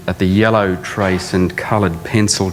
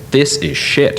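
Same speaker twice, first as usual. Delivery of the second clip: put-on blunt, higher verdict in a Harry Seidler accent; 6 semitones higher, slower than usual. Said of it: "having to do this accent".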